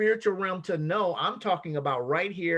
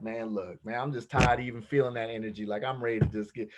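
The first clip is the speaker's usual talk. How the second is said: worn-out sigh; 7 semitones lower than usual. Retold or imitated. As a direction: let the exhaustion drag the words down. Tired fed-up partner on third day.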